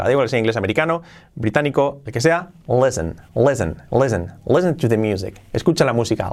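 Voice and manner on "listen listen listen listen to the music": LISTEN as "lessen", no t; silent T. Shown as a demonstration. Teacher says T is never pronounced, silent T. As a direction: repeat "listen" without any t, falling. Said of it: "la T no se pronuncia nunca".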